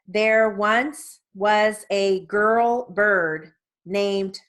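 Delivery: measured story reading. Shown as a demonstration. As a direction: read each line at a steady, controlled pace. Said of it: "I'll read this at one twenty".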